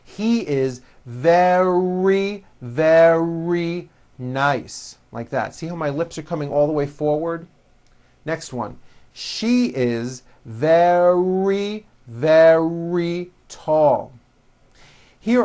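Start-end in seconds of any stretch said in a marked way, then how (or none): 0.0-5.0 very slow, strong R in each very; drawn out for learners to copy; nice and slow. Shown as a demonstration. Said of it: "nice and slow". 9.1-14.1 very slow, strong R in each very; drawn out for learners to copy; nice and slow. Shown as a demonstration. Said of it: "nice and slow".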